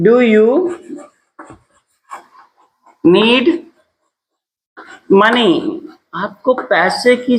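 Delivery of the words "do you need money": long pauses between the words; broken-up teacher's dictation; piece-by-piece dictation. Shown as a demonstration. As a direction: dictate slowly, leaving time to write.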